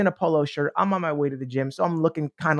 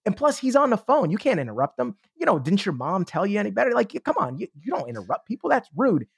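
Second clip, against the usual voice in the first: higher, mocking voice of self-doubt; nagging inner doubt; 5 semitones higher than usual. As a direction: nag yourself like a scolding inner critic. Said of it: "the voice comes up".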